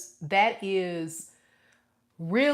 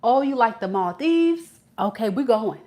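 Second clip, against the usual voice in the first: mock charmer; 4 semitones higher than usual. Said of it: "when they say".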